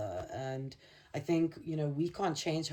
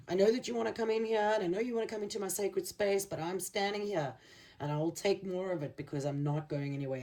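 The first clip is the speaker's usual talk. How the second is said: higher, fast, stubborn defiance that settles down; defiant warrior; 4 semitones higher, faster than usual. Retold or imitated. Battered warrior guarding his sacred space, fast and defiant. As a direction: refuse to budge, rising then steadying. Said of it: "And he's like".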